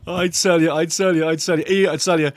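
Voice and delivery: loud, tickled repetition; amused exclaiming. Real, not acted. Fan tickled by a bad referee call, amused exclaiming. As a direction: exclaim it just after cracking up. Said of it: "I gotta laugh".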